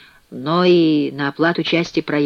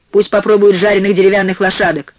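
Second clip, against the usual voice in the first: louder, higher indignant yell; 4 semitones higher, 6 dB louder than usual. A narrator's reading. Stateless prisoner shouts at his cellmates, yelling. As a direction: shout it out, short of screaming. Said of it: "заорал человек без родины".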